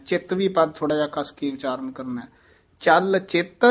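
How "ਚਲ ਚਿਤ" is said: ਚਲ ਚਿਤ then a small catch; a brief thamak after ਚਿਤ; slight halt after ਚਲ ਚਿਤ. Shown as a demonstration. Teacher demonstrates a brief thamak after ਚਲ ਚਿਤ. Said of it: "ਇੱਥੇ ਠਮਕ".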